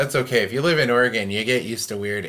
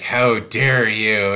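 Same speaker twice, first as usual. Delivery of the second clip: slow, louder, offended demand; mock indignant outrage; 7 dB louder, much slower than usual. Angry congregant scolding the pastor, hammed-up outrage. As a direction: stretch it out like a scandalised churchgoer. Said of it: "when they get mad".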